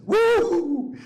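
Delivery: high loud woo; joyful whoop. Retold or imitated. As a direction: shout it up high with delight. Jumps around happily.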